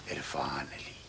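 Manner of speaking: whispering. Acted. Secret revealed to old man.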